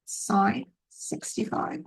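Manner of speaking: put-on slow, drawn-out light Brooklyn accent; a hint of Brooklyn accent, slowly. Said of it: "I'm doing it like a Brooklyn accent".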